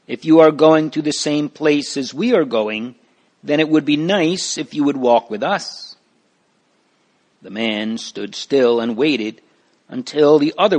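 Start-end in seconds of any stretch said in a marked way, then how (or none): 0.1-6.0 friendly call, a touch raised. Acted. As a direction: invite him from a few steps away. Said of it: "Mister Greatheart called".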